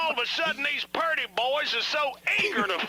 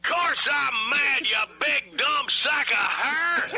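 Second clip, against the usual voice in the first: angry; 3 semitones higher, slower than usual. Acted. Host snaps at co-host.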